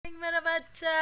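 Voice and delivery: high bright coaxing; cheerful coaxing. Real, not acted. Mother coaxes her baby to look at the camera and laugh, high-pitched. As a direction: lift your voice to get a smile.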